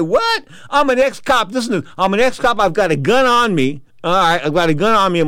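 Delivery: high, loud, indignant shout; retold alarmed shout. The ring announcer shouting back at the promoter who pulled a gun, high and loud.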